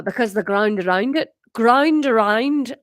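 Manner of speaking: put-on loud, testing Scottish accent gone Irish; Irish-sounding attempt at Scottish; Scottish slipping into Irish. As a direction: try Scottish and land in Irish. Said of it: "no, that's Irish".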